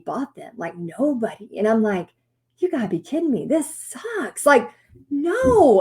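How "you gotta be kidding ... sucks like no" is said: frustrated. Retold or imitated. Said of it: "she senses my frustration".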